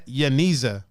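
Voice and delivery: Yaniza, Y at the front, stated as settled; confirmed pronunciation. Shown as a demonstration. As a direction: say Yaniza with a Y and a long ee in the middle. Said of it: "yes, it's pronounced Ye".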